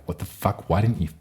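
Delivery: imitating a sketch rant, rising to a shout; Dorothy furious. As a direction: ham up a furious Dorothy yelling at the witch. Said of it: "Mad T V sketch where Dorothy's like".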